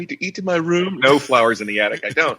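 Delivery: pitiful little orphan voice; plucky hopeful orphan. Retold or imitated. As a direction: play the sad orphan, high and pleading. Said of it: "Says it in his best orphan voice".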